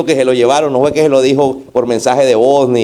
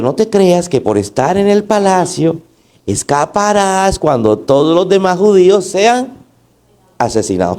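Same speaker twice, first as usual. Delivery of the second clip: mild, unforced reading of a rebuke; understated, too-gentle delivery of a warning; mild little tone; 3 semitones higher than usual. Shown as a demonstration. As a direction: read it lightly, without real reproach. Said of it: "con ese tonito de como tan".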